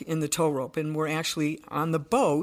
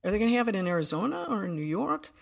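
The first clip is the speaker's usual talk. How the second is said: wondering thought; 4 semitones higher, faster than usual. Retold or imitated. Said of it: "my next thought was".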